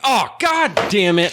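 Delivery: mock deflated curse; drawn-out letdown. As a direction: stretch it out, crushed. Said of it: "he's like".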